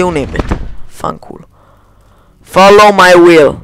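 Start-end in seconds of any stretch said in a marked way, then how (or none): 2.4-3.6 commanding spell, a bit louder; louder spell casting. Pretend. The streamer urgently casts a spell, commanding and loud. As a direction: command it like a wizard.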